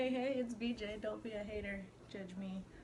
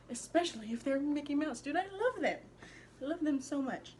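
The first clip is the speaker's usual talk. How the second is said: high, loud, gushing delight; hyped up; 6 semitones higher, 5 dB louder than usual. Real, not acted. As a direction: squeal how much you love them. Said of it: "got all hype over my pants".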